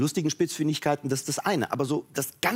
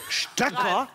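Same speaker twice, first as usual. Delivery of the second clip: disbelief; 5 semitones higher than usual. Retold or imitated. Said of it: "das hat sie doch jetzt nicht gesagt".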